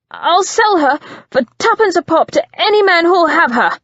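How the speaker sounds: high, loud, taunting threat; cruel goading. Acted. Christian goads Simon with threats to Lucy, high and taunting. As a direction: bait him with each word.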